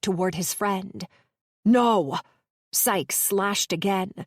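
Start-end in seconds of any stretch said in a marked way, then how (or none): 1.6-2.2 loud desperate cry. Acted. Someone crying out as the pirate charges, loud no. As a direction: scream the word out.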